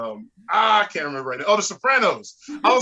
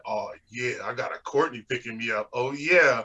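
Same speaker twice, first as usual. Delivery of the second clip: excited passenger; 7 semitones lower than usual. Retold or imitated. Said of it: "They said".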